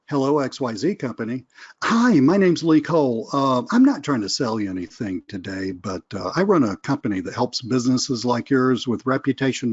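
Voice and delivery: brighter, livelier cold-call voice; phone calling voice. Shown as a demonstration. Coach showing his class how he sounds making a sales call. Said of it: "Lee's voice when he's calling".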